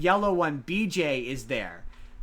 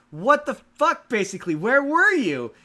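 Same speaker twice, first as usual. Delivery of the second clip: put-on exasperated older brother; 10 semitones higher, 9 dB louder than usual. Older brother scolding his absent brother, loud and high. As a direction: blow up at the no-show brother. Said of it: "the older brother is like".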